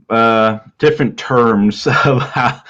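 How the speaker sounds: ordinary talk, nothing marked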